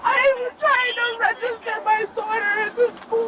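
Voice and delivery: tearful, voice breaking; upset and crying, pleading. Real, not acted. Detained driver breaks down.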